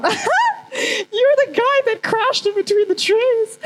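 high, slow, laughing mockery; mocking quote. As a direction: tease him, drawn out and laughing. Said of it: "looked at my situation and just gone".

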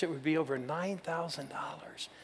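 hushed whisper. Retold or imitated. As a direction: whisper the total like a secret. Retold aside to the giver.

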